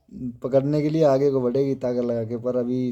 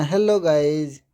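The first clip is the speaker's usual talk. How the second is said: put-on coaxing demo for baby; slower than usual. Shown as a demonstration. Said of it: "कहना".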